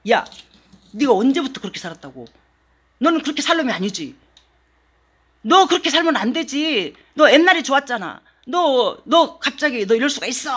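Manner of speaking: 협박. Retold or imitated. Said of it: "하면서 막 이제 협박을 해요".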